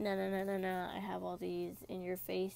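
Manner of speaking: ordinary talk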